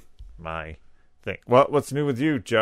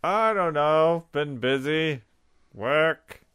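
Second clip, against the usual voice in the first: imitating Joe; 5 semitones higher, slower than usual. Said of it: "So he's looking at his watch".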